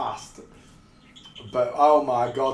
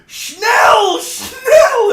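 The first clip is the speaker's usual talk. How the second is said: "Schnell, schnell" yelled much higher and louder; shouting schnell; 10 dB louder than usual. Retold or imitated. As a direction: bark schnell at the driver with full force. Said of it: "at the top of my voice".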